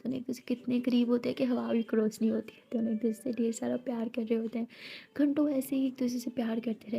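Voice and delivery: breathy intimate whisper, telling it close; whispered narration. A narrator's reading. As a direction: hush the voice for the love scene. (फुसफुसाकर कहानी सुनाना)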